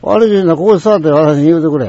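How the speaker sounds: retold firm demand; a bit angry. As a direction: stand up to the customer, mildly heated. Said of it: "それだけちょっと頭きたからな".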